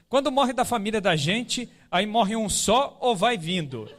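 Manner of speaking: a hint of a child, slowing into the question. Son asking after the aunt's death, lightly imitated child. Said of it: "aí ele perguntando".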